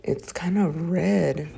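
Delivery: hushed whisper to herself. Real, not acted. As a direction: whisper it, worried. Checking throat in mirror.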